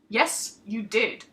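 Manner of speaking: mild gruff retort; a hint of a surly blond warrior contradicting; growled. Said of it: "the blonde man growled".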